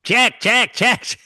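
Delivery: high, loud hammed-up Russian accent; mock Russian accent. Podcast host mimicking the Russian villain: hammed-up Russian accent. Imitating Malkovich's Russian card player.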